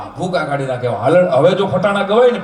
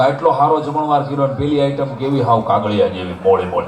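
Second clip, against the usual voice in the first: put-on old wife complaining.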